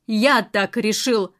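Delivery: "Я так решил" said slowly, each word pressed down; "Я так решил" slow and heavy, final and closed to argument; emphasized. A narrator's reading. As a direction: lean hard on "Я" in "Я так решил". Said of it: "подчеркнул он".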